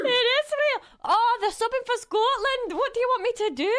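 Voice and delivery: real excited shouting. Real, not acted. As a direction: burst out in real astonishment. Sub goal really hit on stream.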